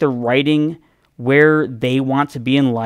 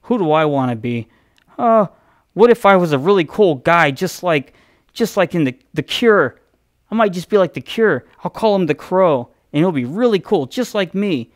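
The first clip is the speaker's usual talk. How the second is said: mocking James O'Barr; 5 semitones higher than usual. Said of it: "he's like".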